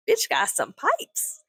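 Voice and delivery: high, slow, drawn-out mock admiration; high-pitched, lingering delivery; playful high emphasis. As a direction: stretch it out up high. Admiring the neighbor's scream, playfully.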